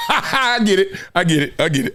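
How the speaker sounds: chuckling through the words; laughing it off. Real, not acted. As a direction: laugh as you concede. Laughing at the host's question.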